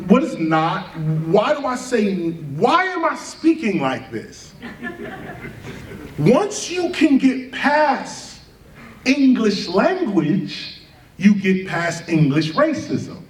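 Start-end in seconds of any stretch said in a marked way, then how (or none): 6.2-10.8 laughing. Real, not acted. Laughing at his own point.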